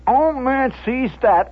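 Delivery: excited repeat. A narrator's reading. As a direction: launch into it with mounting alarm. Repeat as tension erupts.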